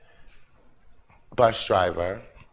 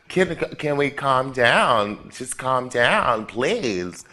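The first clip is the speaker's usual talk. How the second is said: slow calming plea; slower than usual. Retold or imitated. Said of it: "I'm like".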